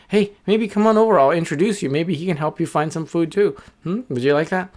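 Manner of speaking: high, laughing little bird. Acted. Little bird laughs, defends wolf.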